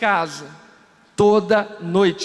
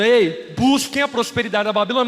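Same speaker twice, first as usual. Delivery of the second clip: voicing God; 3 semitones higher, 3 dB louder than usual. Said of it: "Deus dizendo".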